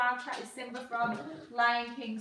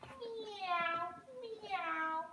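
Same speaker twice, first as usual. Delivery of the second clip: high, soft, drawn-out meows; cat meow; 8 semitones higher, 5 dB quieter than usual. Shown as a demonstration. Showing the baby the cat, high soft meow. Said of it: "this one is the cat".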